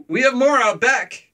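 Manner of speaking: high, slow caricature of the seller; Russian seller. Retold or imitated. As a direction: stretch it out in a high put-on voice. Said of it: "So she's like".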